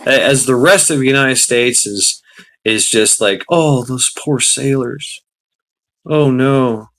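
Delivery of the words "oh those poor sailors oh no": slow, sarcastic pity; mock the public's sad sighs, slowly; sarcastic fake concern; mock sympathy. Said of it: "Such sympathy".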